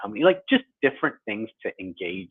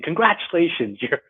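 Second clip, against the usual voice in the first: sarcastic; 3 semitones higher than usual. Retold or imitated. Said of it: "I'm being a little sarcastic here".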